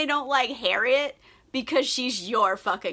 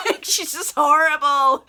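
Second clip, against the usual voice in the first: words broken by laughter, louder; laughing; 5 semitones higher, 6 dB louder than usual. Real, not acted. Laughing to viewers about Emma, words through laughter. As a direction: say it while laughing.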